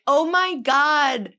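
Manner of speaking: high, loud, drawn-out gasp of excitement; excited fan. Retold or imitated. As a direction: gush it slowly like a thrilled listener. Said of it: "message me just like".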